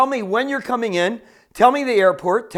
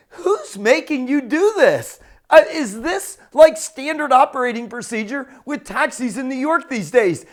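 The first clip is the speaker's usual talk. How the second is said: higher-pitched, incredulous questioning; amazed questioning; 3 semitones higher than usual. Acted. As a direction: ask as if you can't believe this service. Acted amazed questioning of cabbie.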